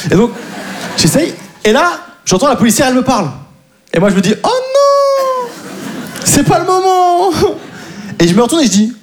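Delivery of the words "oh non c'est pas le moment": panicked thought. Retold or imitated. Panicked inner thought in story.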